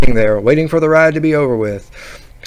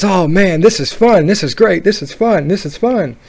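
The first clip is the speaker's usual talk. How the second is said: higher, repetitive gushing about the fun; excited kid; 4 semitones higher than usual. Retold or imitated. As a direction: mimic an excited boy on a ride. Excited boy acted out.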